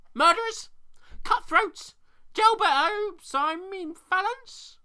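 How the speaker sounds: high, loud squawking bird voice, slowing on the correction; shouting raven. A narrator's reading. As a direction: shriek insults then fussily correct. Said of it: "shouted the raven".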